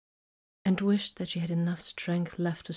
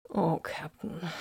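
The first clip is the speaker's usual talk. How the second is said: sighed; 5 dB quieter, slower than usual. A narrator's reading. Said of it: "she sighed".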